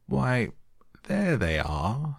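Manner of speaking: high, drawn-out note of triumph; triumphant king making his point. A narrator's reading. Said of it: "triumphantly pointing to the tarts".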